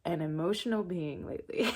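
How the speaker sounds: fast, laughing through the words. Real, not acted. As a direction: laugh at herself while admitting it. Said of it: "It's making me emotional".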